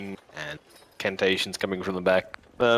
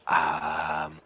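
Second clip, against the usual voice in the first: put-on raised, light Indian accent of a shopkeeper; 6 semitones higher than usual. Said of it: "did Myriad suddenly develop an Indian accent there".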